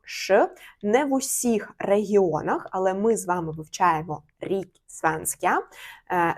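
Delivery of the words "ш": "ш" as a lone sh sound; isolated hushing "ш" for R plus S. Shown as a demonstration. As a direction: sound out "ш" by itself. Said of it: "буде вимовлятися як звук".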